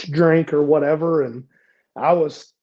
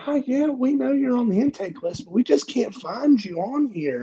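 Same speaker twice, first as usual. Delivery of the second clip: intake staff; 10 semitones higher than usual. Retold or imitated. Intake staff's excuse voiced.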